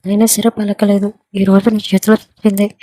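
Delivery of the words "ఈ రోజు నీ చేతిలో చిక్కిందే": angry thought. A narrator's reading. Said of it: "అని కోపంగా అనుకుంటూ".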